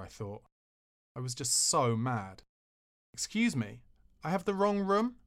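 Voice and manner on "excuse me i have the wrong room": southern polite malice. Retold or imitated. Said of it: "adding a southern edge of polite malice to my voice".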